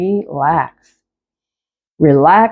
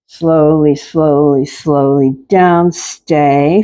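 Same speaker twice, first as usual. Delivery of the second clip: slow motion; 5 semitones lower than usual. Shown as a demonstration. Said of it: "You finish slow".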